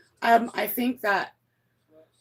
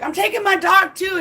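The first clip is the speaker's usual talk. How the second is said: higher, mocking retold threat; imitating spiteful ex; 7 semitones higher, 4 dB louder than usual. Ex taking the dog out of spite, imitated threat. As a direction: throw out the threat as ex. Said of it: "he'd be like".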